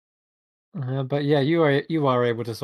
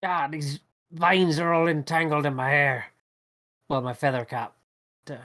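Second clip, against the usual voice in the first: put-on grumbling kid voice. DM voices struggling kid goblin.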